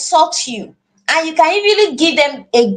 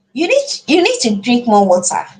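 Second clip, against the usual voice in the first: supportive; 3 semitones lower than usual. Shown as a demonstration. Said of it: "feels like you are supporting them".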